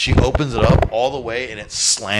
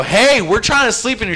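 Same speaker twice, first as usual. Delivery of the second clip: annoyed call-out; 10 semitones higher, 4 dB louder than usual. Retold or imitated. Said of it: "I go".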